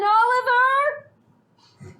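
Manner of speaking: drawn-out loud call of Oliver; slow, loud hail of Oliver. Acted. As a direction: call out for him across the dungeon, slowly. Calling out for friend.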